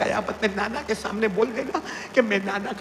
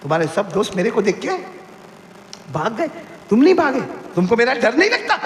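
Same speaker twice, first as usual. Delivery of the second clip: Umar challenging Hussain; 5 semitones higher, faster than usual. Acted.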